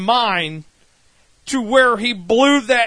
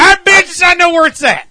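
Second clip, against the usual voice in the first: urgent blurting; 5 semitones higher, faster than usual. Acted. Billy answers the villain's countdown, urgent blurting. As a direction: blurt it out before time runs out.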